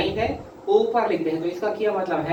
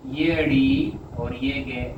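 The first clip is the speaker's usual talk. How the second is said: slow spelling; 4 semitones lower, slower than usual. Shown as a demonstration. Teacher spells out shorthand letters.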